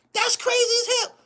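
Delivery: high, laughing through the words; laughing disbelief. Real, not acted. Repeating the reaction to the player, now laughing. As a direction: crack up saying it.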